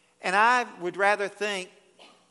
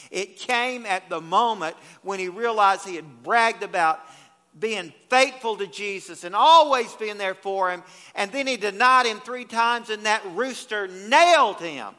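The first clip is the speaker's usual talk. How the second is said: fervent preaching; 6 dB louder than usual. Real, not acted.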